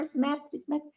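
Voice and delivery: "esmetre" said as "izmétre", with an i before the s; "esmetre" with the Brazilian extra i up front, quiet; "esmetre" with added i. Shown as a demonstration. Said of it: "então eu falo esmetre". ("esmetre" pronunciado "izmétre", com i no começo)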